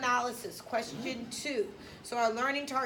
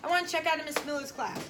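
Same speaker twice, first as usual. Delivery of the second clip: put-on quick, slightly higher complaining kid; whiny student; 4 semitones higher, much faster than usual. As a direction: rush out the complaint like a pouting student. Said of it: "Just think about how that sounds".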